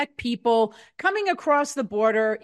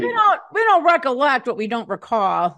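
mock witness testimony. Mocking defense testimony.

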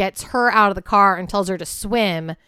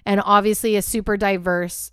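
thump on the mic stand; mic bump. Real, not acted. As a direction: knock hitting the mic stand. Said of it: "sorry, I keep hitting my mic stand".

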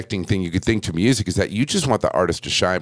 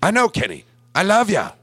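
much higher, affectionate gush; doting sound guy; 7 semitones higher than usual. Retold or imitated. Sound guy tells the drum tech he loves him, in a high doting gush. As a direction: gush like a proud friend. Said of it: "And he goes".

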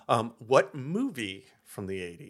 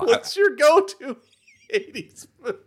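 put-on high, bubbly Valley Girl gush; 11 semitones higher, 9 dB louder than usual. Continues Valley Girl persona.

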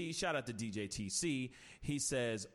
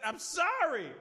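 high, louder pleading sorry; mock apology; 14 semitones higher, 7 dB louder, slower than usual. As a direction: beg forgiveness in a hammed-up voice. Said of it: "you couldn't have just said".

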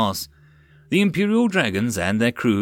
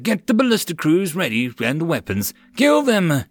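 commanding; 6 semitones higher than usual. Acted. Commander barks orders in battle.

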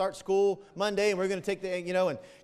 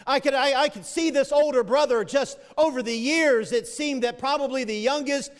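raised-pitch, insistent sermon flow; impassioned preaching; 6 semitones higher, 6 dB louder than usual. Real, not acted. Preacher explaining the older brother's growing resentment, higher and insistent. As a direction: press each point on the congregation.

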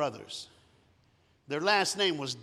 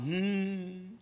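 hum; 4 semitones higher than usual. Retold or imitated. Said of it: "and then they hum".

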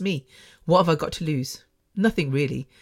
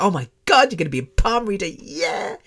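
mock excited friend; 3 semitones higher than usual. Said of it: "she gets really excited for me".

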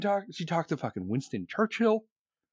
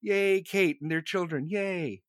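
imitated crowd cheer, drawn-out higher yays; mock cheering along with the crowd; 5 semitones higher, much slower than usual. Crowd greeting the royals on the palace steps, mock cheering. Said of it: "everyone's like".

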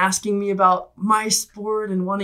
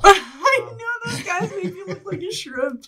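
laughing; 12 semitones higher than usual. Real, not acted. Laughing at photo.

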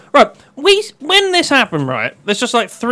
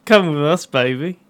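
Austin Powers style; 4 semitones lower, 3 dB quieter than usual. Pretend. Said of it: "Give me the line again".

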